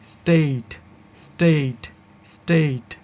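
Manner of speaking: স্টেট with a long ei glide; correct pronunciation. Shown as a demonstration. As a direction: say স্টেট as "steit". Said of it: "সঠিক উচ্চারণ হবে".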